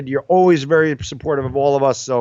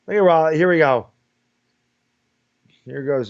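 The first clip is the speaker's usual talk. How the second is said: ordinary delivery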